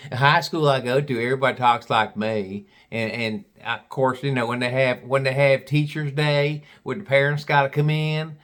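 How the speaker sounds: chatty mock Southern gal; deep Southern accent. Gal going on about school and pappy, mock Southern accent. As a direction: ramble on in an imitated Southern accent. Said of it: "She had a real deep Southern accent".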